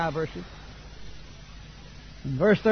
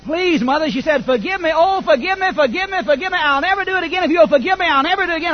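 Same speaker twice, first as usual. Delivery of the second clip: put-on high, pleading little girl begging forgiveness; pleading child; 8 semitones higher, 4 dB louder than usual. Little girl begging her mother, high and pleading. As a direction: beg like a frightened child, higher. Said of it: "the girl begins to cry".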